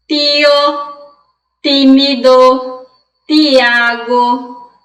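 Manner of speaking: TIO, TÍMIDO, TIAGO with a plain hard T, no chiado; Spanish hard T. Shown as a demonstration. Teacher demonstrating Spanish pronunciation to Brazilian students, hard T. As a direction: slowly model TÍMIDO and TIAGO with crisp Spanish "ti". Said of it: "gente chia pra pronunciar essas palavras. Em espanhol".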